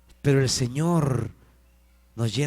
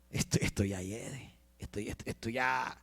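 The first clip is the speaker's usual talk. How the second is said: very soft, low, halting words; Marta titubeante; 4 semitones lower, 12 dB quieter than usual. Acted. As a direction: falter quietly, reluctant to say it. Voices Marta hesitating before Jesus. (titubeando en voz muy baja)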